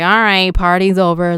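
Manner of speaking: mock clean-freak call to end the party; bossy tidy-up voice. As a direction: announce the party's over like a strict host. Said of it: "This is energy just like".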